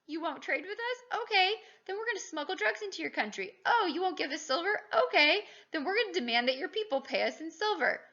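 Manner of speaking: lightly voiced smug empire; teacher voicing the British, mock smug. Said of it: "the British are like".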